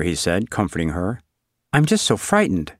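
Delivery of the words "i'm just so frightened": put-on frightened girl. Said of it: "she said".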